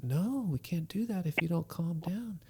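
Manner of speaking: soft and calm; gentle dad. Retold or imitated. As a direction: answer the kid softly. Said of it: "It's like".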